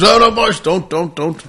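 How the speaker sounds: a touch of alarm, calling the mates off; comedian calming friends. Retold or imitated. Comedian stopping his mates from stepping in, urgent plea. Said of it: "And he goes".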